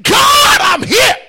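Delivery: high, loud cry to God; shouted prayer to be noticed; loud calling out. Shown as a demonstration. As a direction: call out so God hears. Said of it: "you gotta say".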